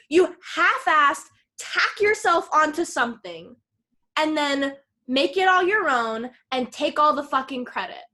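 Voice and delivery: heated, emphatic telling-off; angry accusation. Retold or imitated. Retelling a student accusing his thesis-stealing friend, angry and emphatic. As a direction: lay into him, punching the insults.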